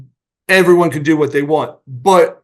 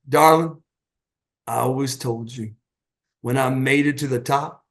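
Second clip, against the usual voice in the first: lower, softer, with lingering pauses; retold tender address; 4 semitones lower, 5 dB quieter than usual. Storyteller voicing Cat with an arm round his wife, mock tender. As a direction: imitate a husband's smooth sweet talk.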